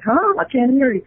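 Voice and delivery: high-pitched puzzled retort, imitating someone; mimicked hard-of-hearing query; questioning retort. Acting out man who couldn't hear.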